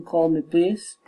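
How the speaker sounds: polite climb on "please"; rising request. Shown as a demonstration. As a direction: lift "please" at the end. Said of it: "rising intonation".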